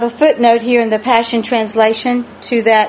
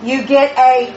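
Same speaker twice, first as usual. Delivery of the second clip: slow, drawn-out preaching cadence; 2 semitones higher, slower than usual. Real, not acted. Preacher quizzing the church on prayer and revelation, preaching. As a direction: stretch the key words to drive the point home. Preacher drives the point home.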